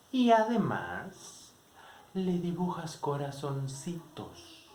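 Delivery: slow, drawn-out gotcha; slow triumphant tease. Retold or imitated. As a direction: savor the final accusation. Alma finishes the accusation. (burla lenta y triunfal)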